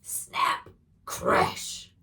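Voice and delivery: loud, abrupt bursts; explosive sound words. A narrator's reading. Storyteller as the dragon's branch breaks, explosive. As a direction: hit each word like a breaking branch.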